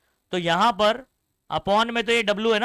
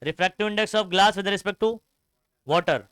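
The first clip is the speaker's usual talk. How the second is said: slow, spaced-out reading of the formula; slow dictation; much slower than usual. Shown as a demonstration. Teacher shows students how to write it, reading slowly. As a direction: spell the formula out slowly for the class. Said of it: "पढ़ने का तरीका भी समझो".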